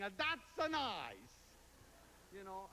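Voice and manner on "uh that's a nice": put-on Italian accent. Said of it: "Mama's saying".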